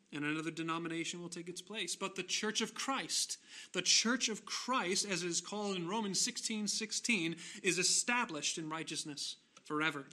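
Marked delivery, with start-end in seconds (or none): 1.9-10.0 emphatic preaching. Real, not acted. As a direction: preach it out with rising weight. Preacher rises in emphatic proclamation.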